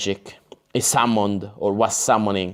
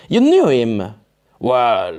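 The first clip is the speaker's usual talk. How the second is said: louder corrected character voice; stressing knew, louder; right character voice; 4 dB louder than usual. Acted. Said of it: "sorry, wrong voice".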